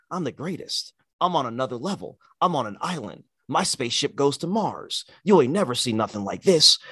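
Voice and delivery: hushed, intense boasting; a hint of Roman's intense promo voice; Roman impression. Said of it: "looks at you intensely and says".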